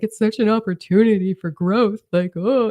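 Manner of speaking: high, enthusiastic self-quote; mock gushing. Quoting her own gushing to Corey.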